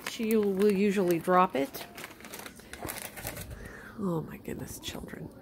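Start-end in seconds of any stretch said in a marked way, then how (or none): 4.0-5.3 much softer, breathy hush. Real, not acted. Owner hushing fondly to the pets, very soft.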